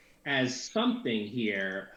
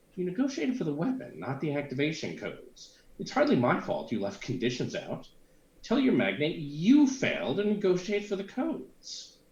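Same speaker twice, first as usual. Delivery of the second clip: attempted very feminine voice, only half-managed; 3 semitones higher than usual. Reading a game character's reply aloud after another character: attempted feminine voice. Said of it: "And then a very feminine voice".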